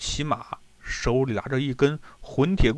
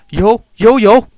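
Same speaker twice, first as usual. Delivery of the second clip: quick, much higher and louder yeses; hasty eager yes; 6 semitones higher, 11 dB louder than usual. Acted. Host rushing to please the hungry general, eager and loud. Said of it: "金杰连忙说".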